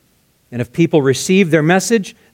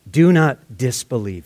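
gracious and gentle; 4 semitones lower than usual. Acted. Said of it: "he's so gracious to him".

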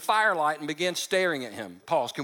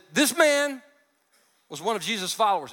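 accusing call; 3 semitones higher than usual. Retold or imitated. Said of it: "she finally said".

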